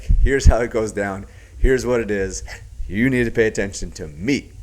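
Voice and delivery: Tony. Retold or imitated. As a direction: lay down the law, mimicking a dominant coach. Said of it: "Alex was the one that was, like, in Tony's frame".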